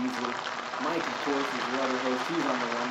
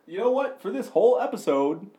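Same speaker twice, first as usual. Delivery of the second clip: radio voice; 3 semitones higher, 4 dB louder than usual. Pretend. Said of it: "it's radio voice time".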